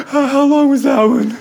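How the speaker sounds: put-on high, teary little-boy voice; imitating a sobbing kid. Dad mimicking his crying son asking about the timer. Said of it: "He's like".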